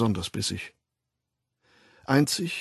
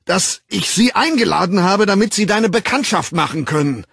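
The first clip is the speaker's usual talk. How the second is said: bellowing with all his might; 10 semitones higher, 8 dB louder than usual. A narrator's reading. Bernard bellowing at John behind the door, high and loud. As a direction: shout it out to reach him through the door. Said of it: "wenn man aus Leibeskräften brüllen musste".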